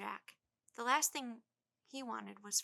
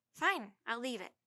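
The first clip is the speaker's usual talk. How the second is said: crossly; 6 dB louder than usual. A narrator's reading. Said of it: "Jack said crossly".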